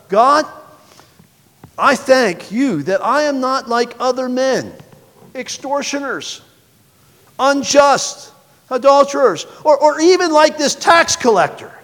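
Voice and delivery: high, slow, self-satisfied prayer voice; a preening Pharisee lifting his voice to God; smug Pharisee. Acted. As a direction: pray as if showing off to God. Proud Pharisee prays aloud.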